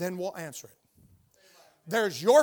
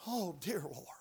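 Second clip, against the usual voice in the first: soft, low whisper to God; hushed little appeal; whispered plea; 4 semitones lower, 11 dB quieter, slower than usual. Real, not acted. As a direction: whisper it as an aside prayer. Mock plea after friendless confession.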